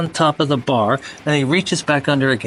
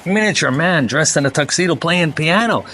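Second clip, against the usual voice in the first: wide-eyed disbelief, pitched up; amazed customer; 6 semitones higher than usual. Retold or imitated. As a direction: play the stunned barfly in the joke. Astonished bar customer in joke.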